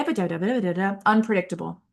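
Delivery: unpredictable rhythm demo. Shown as a demonstration. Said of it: "If I'm just talking like this".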